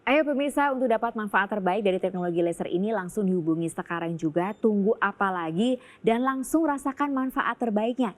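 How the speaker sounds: eager TV sales pitch; infomercial. Acted. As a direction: urge the viewers to call now. Co-host urges viewers to call.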